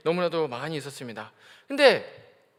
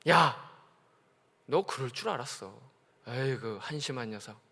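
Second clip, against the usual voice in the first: scornful scolding; 5 semitones lower than usual. Pretend. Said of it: "그렇게 말씀 안 하시죠".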